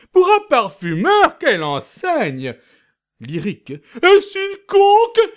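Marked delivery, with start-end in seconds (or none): 0.1-2.5 high, admiring exclamation. Acted. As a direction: gasp in admiration.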